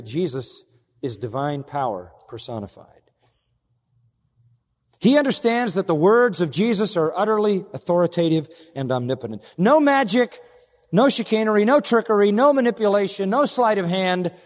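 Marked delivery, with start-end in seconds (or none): 5.0-14.3 loud, high preaching crescendo; full-force preaching. Acted. Preacher proclaiming Jesus's power to the congregation, loud and high. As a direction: build each no louder like a pulpit climax.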